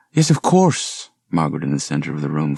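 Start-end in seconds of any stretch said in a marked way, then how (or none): 0.1-1.1 forced smile. Acted. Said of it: "forcing her own smile".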